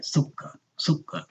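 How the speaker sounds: "Sukar" with the k held double and soft; doubled kaf. Shown as a demonstration. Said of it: "The kaf is pronounced twice".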